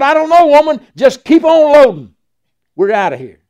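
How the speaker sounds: firm retort. Retold or imitated. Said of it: "he said".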